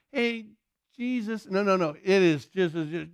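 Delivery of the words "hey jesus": soft, higher-pitched little hail; mock a feeble attempt at calling out; timid, casual call. Shown as a demonstration. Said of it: "He is not like".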